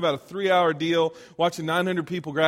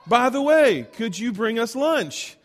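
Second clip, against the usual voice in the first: a touch higher, chirpy proud dad; chipper dad voice; 4 semitones higher than usual. Retold or imitated. Son retells his dad on the phone, lightly voiced chipper dad. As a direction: play the pleased father who got the best parking space. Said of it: "He goes".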